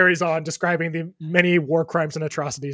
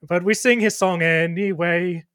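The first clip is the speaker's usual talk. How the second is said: loud, dopey orc voice; dopey cartoon bellow; 3 semitones higher, 5 dB louder than usual. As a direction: boom it out like a dim orc. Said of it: "And then the orc says".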